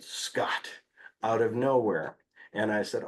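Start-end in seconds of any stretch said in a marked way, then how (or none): 0.0-0.7 softly breathed name; barely voiced name; whispered name. Child says name out of nowhere.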